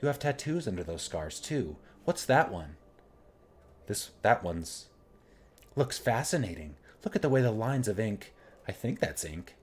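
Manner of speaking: lightly voiced, gentle and bashful hostess; a hint of a timid, polite courtesan; shy brothel hostess. Nenny voiced, fascinated.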